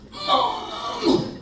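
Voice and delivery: high, loud exasperated "Mom!"; exasperated shout. Retold or imitated. Driver yelling at his mother in the car, exasperated shout. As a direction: snap at her like an annoyed grown son. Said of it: "I was so mad at her".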